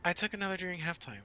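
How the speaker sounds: giggly tipsy confession. Real, not acted. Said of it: "I am tipsy".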